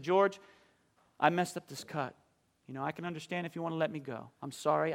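put-on a nervous young worker owning up; quiet, hurried apology to the boss; sheepish apology. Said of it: "and I said".

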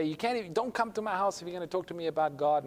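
mild mock refusal. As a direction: lightly play the fed-up brother. Brother forbids talk of God.

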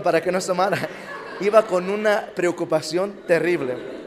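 telling it through a laugh; chuckling at the memory of his fear. Real, not acted. Laughing at his own panic. (riéndose al contarlo)

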